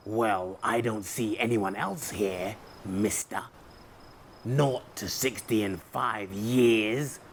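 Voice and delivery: lightly voiced rude teasing, slowed; a hint of a rude bear's mocking; very rudely. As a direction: tease him a little rudely. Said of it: "said Bear very rudely".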